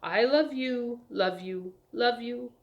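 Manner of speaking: lightly teasing, sing-out repeats; a touch of cheerful affection. A narrator's reading. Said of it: "laughing cheerfully".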